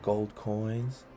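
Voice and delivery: put-on rhythmic read-aloud for children; poem reading. A narrator's reading. Host reading a pirate poem to kids, rhythmic and lilting.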